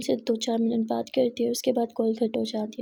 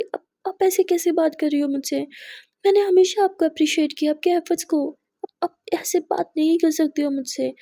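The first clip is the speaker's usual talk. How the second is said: loud, higher hurt protest; angry retort; 4 semitones higher, 8 dB louder than usual. Acted. Muskan angrily hitting back at Aadhya's outburst. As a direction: throw it back at her, stung and loud.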